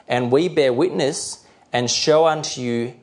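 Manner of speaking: slow, deliberate verse reading; measured Bible reading; slow, clear reading. Real, not acted. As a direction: read scripture out clearly, unhurried. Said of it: "I'll try to read them slowly and clearly".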